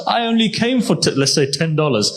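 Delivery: high-pitched, mildly overwhelmed retelling; retold tearful amazement. Needy man overwhelmed by the Imam's gift, retold tearful amazement. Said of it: "he begins to cry".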